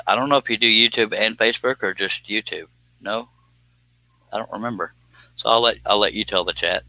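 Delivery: talking through hiccups; hiccuping between words. Real, not acted. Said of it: "Sorry, I'm hiccuping a lot".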